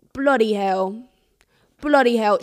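put-on a light go at a British tour guide's accent; cheeky British guide voice, tossed off; imitating an English accent. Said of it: "cute little English accent".

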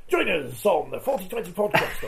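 a put-on radio presenter voice. Shown as a demonstration. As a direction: announce it like a radio host. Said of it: "and then I go".

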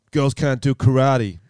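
slow, dismissive sensei voice; a lightly voiced macho teacher; sexist karate sensei. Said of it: "That's a pretty good impression".

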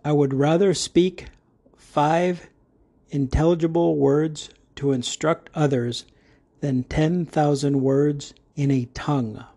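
measured Bible reading of the verse; careful recitation from Corinthians; scripture reading. Shown as a demonstration. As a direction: read the verse deliberately. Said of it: "Begin reading".

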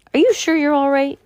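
anxious, sharply concerned; alarmed concern. A narrator's reading. Worried question to Jake.

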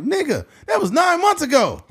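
high, indignant protest; indignant outburst. Retold or imitated. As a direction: protest it in disbelief. Indignant retort to clerk.

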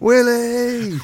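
high loud whooping shout through a laugh; laughing cheer. Retold or imitated. Teammates celebrating in the shower, loud laughing whoop. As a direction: cheer the name like the whole changing room.

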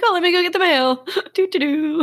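high, carefree sing-song; playfully mock someone strolling along without a clue; oblivious mimicry. Mimicking oblivious trip to mailbox.

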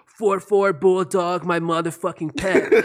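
slow, laid-back surfer drawl; stoner surfer dude voice. Retold or imitated. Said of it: "like, a stoner surfer dude voice".

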